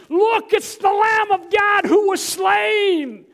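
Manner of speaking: loud, high, slow shout; heavenly proclamation. Retold or imitated. Heaven hailing the Lamb, loud slow shout. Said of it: "all of heaven erupted and said".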